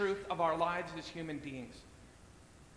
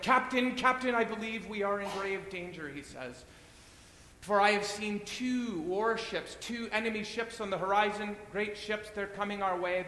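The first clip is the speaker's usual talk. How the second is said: alarmed first mate; 5 semitones higher, 6 dB louder than usual. Acted. First mate warns of warships.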